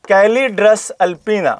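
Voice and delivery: Calidrus alpina stretched out very slowly, syllable by syllable; spelled-out slow repeat. Shown as a demonstration. Teacher repeating the name for exam students to note, very slowly. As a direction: drill Calidrus alpina so they can write it down. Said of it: "क्या नाम है?".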